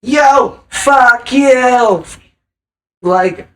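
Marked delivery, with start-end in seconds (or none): 0.0-2.0 high, loud dismissive snap; rude retort. Acted. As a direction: brush them off rudely. Acted rude reply quoted.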